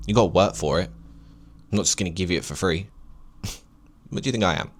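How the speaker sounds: lightly voiced sassy God; a hint of an annoyed deity; sassy God impression. Vlogger voicing God to viewers, mildly sassy. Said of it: "Sorry, God, I know you probably don't talk like that".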